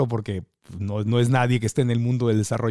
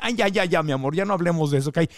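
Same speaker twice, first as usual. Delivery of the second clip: steer back to pretty things, sweetly; lightly voiced doting actress; imitating a famous actress; 2 semitones higher than usual. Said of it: "Decía".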